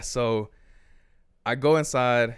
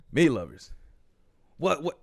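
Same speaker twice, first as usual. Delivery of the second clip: imitated Italian-accented bafflement; lightly put-on Italian accent, puzzled; thick Italian accent; 3 semitones higher than usual. Pizza guy puzzled by the order, thick Italian accent. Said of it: "In all that super thick Italian accent".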